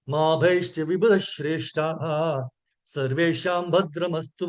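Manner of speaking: measured, drawn-out verse chanting, syllable by syllable; slow Sanskrit recitation. Acted. Teacher reciting Bhagavatam verse to the class, slow and intoned. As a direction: intone the verse slowly and reverently.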